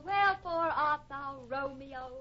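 theatrical Juliet. Acted. Actress swoons at serenading cowboy.

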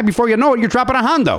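put-on high, hammy Chicago guy accent. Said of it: "to get the voice".

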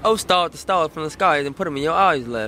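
rough try at a British accent; British accent attempt. Shown as a demonstration. Mimicking the British host's line, attempted British accent. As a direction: copy the British line in an American's shaky British accent. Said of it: "her accent is on a different level to yours".

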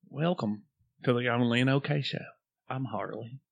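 hushed public radio host with a twang; near-whisper with a country twang; hillbilly NPR voice. Acted. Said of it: "you gotta almost whisper, but you also have to do it with a twang".

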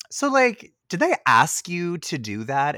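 high, loud, eager asking; mock curious question. Asking a friend about her voice, high and eager. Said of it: "I messaged her and I was like".

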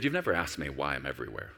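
low, soft and tender; a loving father's gentle hint; sweetly. Retold or imitated. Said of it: "so sweetly".

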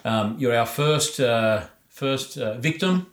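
distant from the microphone; off-mic, sounding far away. Real, not acted. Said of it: "if I sound a little bit far away".

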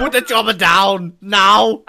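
loud, high, drawn-out command; mock action-hero order. Joking about landing the helicopter, mock bellowed order. Acting an Arnold action line.

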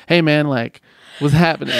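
lightly hammed-up American dude hello; funny casual greeting. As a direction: toss it out as a mock-casual hello. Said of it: "do this in a funny way".

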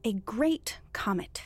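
slow, spaced-out term; deliberate repetition. Acted. Thief explaining a term to the baffled priest, deliberate. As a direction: say it slowly for a baffled listener.

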